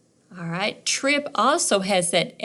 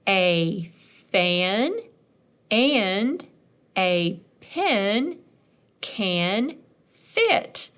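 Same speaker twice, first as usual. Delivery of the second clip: each word read slowly on its own; much slower than usual. Shown as a demonstration. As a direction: sound out each word, pausing between. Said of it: "Let's try it".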